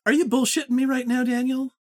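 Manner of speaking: high, fast mock accusation; incredulous. Real, not acted. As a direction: call his bluff, laughing disbelief. Accusing friend in jest.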